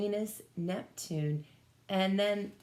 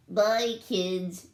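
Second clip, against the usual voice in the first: shouted back; 3 semitones higher, 6 dB louder than usual. Acted. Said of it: "she shouted back".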